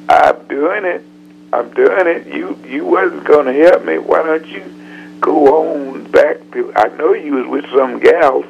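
lightly voiced stubborn old man; a defiant singer. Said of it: "He said".

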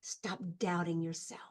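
hushed, slow retold whisper easing into soft voice; imitating a gentle whispering voice. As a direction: whisper it tenderly, as a voice in the ear. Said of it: "this beautiful voice whispered in my ear very gently".

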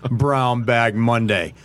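overdone radio anchor delivery; big booming announcer read, slow on the title; parody news anchor. Shown as a demonstration. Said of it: "this is my anchor voice".

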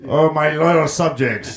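slow, grand king to his subjects; warm regal boom. Pretend. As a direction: proclaim it like a pompous king. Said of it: "We're the king of Mexico".

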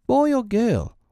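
put-on small child's high-pitched question; tentative little boy voice; not too hopeful. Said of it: "not too hopefully".

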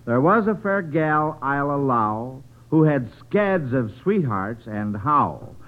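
slow, lilting verse reading; limerick reading. Acted. Host reading the listener's limerick, in verse rhythm. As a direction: read the limerick with a bounce.

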